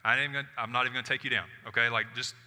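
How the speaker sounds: insist, ready to fight; Mary confronting the gardener, loud and insistent; fierce demand. Acted. Mary's just ready to fight.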